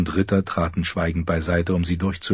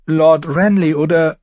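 higher, earnest plea for mercy; pleading girl; 7 semitones higher than usual. A narrator's reading. Sansa pleads before the king, earnestly. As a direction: beg the court for your father.

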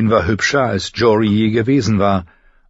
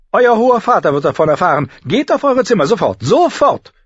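high, loud governess outburst, slowing on the command; stern scolding; 12 semitones higher, 6 dB louder than usual. Acted. Septa jumps up and sends sisters away, scolding. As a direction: order the girls out, loud and high.

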